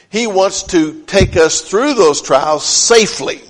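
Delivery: "safely" set apart and punched at the end; emphatic, deliberate landing on "safely"; stress on safely. Real, not acted. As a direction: lean firmly on the word "safely". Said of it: "I emphasize that word safely".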